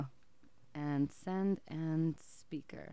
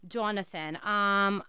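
put-on Jewish accent. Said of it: "I'm gonna be in an accent".

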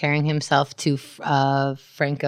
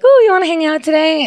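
high, louder mock-eager invitation; pitched-up, perky character quote; eager June; 10 semitones higher, 5 dB louder than usual. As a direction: imitate an overeager roommate asking. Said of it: "And then June is like".

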